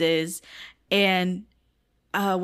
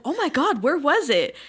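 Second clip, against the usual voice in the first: higher-pitched retold amazement; mock astonishment; 6 semitones higher than usual. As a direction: act out excited surprise at good news. Acting his reaction to found ring.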